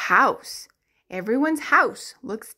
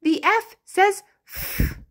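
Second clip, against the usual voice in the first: sing-song answer; 8 semitones higher than usual. Shown as a demonstration. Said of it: "What does the letter F say".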